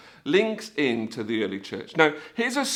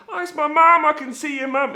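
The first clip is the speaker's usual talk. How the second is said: high, louder excited call; mock childlike excitement on spotting someone; acted delight; 12 semitones higher, 6 dB louder than usual. Rider waving to people below, acted delight.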